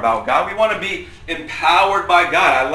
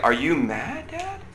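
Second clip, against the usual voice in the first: family member asking; 2 semitones higher than usual. Retold or imitated. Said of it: "everyone's like".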